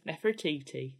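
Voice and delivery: put-on Nefertiti with a northern English accent. Northern accent, imitating the lecturer. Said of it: "she has a northern accent".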